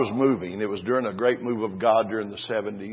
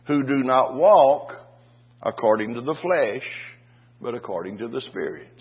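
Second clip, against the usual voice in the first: scripture reading; 3 semitones higher, 6 dB louder than usual. Acted. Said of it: "Romans eight one said".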